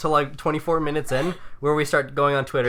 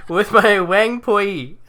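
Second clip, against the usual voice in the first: laughing; 3 semitones higher, 3 dB louder, much slower than usual. Real, not acted. Laughing while reading own message.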